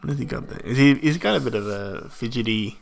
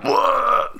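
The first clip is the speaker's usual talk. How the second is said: breathy whoa; 9 semitones higher than usual. Retold or imitated. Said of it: "he's like".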